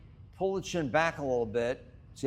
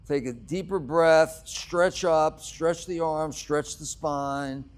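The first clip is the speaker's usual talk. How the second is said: louder cue; 6 dB louder, slower than usual. Real, not acted. Yoga teacher cueing big stretch.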